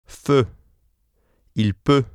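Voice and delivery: Feu and peut with the close rounded eu vowel; rounded lips. Shown as a demonstration. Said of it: "Listen and repeat".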